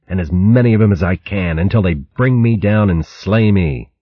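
proud, rising warrior's oath; fierce warrior vow. Acted. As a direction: swear revenge like a warrior. Fierce squirrel warrior vows.

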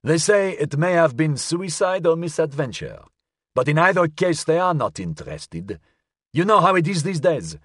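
high-voiced old gentleman; elderly man. A narrator's reading. Elderly caller advising the detective, old man's high voice. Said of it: "sounded as if it belonged to an elderly man".

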